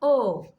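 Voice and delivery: "O" as a loud, drawn-out oh; long O sound. Shown as a demonstration. Teacher answers what long O sounds like, "O" as a loud oh. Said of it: "what is the long sound of O".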